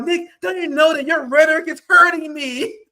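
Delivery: hammed-up fake crying whine; mock whining. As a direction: whimper it like a wounded crybaby, mockingly. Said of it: "all the anti-Zionist Jews like".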